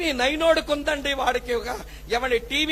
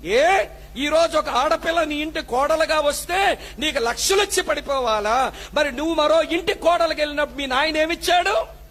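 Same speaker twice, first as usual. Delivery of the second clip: raised, rebuking preacher's voice; angry scolding; 2 semitones higher than usual. Real, not acted. Pastor rebuking greedy mothers-in-law, angry and raised.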